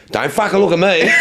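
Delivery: high-pitched mock protest; imitating amused friend. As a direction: playfully refuse to step in. Acts out Frank refusing to help.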